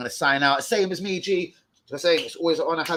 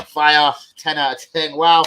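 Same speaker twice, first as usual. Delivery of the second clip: hype shout; 3 semitones higher, 10 dB louder, slower than usual. Real, not acted. Hyping his own bars.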